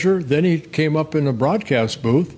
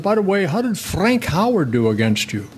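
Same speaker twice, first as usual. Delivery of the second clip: dad asking about his hero; 6 semitones higher than usual. Retold or imitated. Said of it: "He said".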